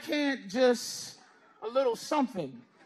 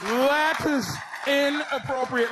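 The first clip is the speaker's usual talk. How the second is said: mock prissy; 2 semitones higher, slower than usual. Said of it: "inappropriate is a vaginal word".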